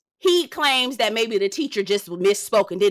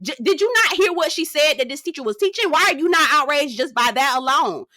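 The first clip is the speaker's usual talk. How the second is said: outraged; 5 semitones higher than usual. Retold or imitated. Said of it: "I was like".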